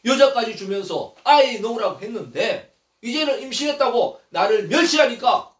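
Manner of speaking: acted indignant tirade, building in force; wronged wife, firm and insistent; angry complaint. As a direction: press the grievance on a husband. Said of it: "그러면서 막 화를 내지요".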